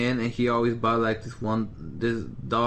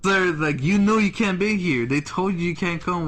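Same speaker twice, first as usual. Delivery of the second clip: retold confrontation; 5 semitones higher, 3 dB louder than usual. Acts out confronting the banned customer.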